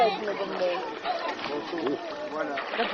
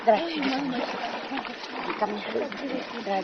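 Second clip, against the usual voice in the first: soft coaxing; 6 dB quieter than usual. Real, not acted. Coaxing the child to come.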